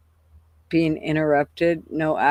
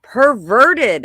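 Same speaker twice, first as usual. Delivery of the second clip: higher, slow drawn-out mock shock on so; imitating granddaughter; 8 semitones higher, 5 dB louder, much slower than usual. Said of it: "she's like".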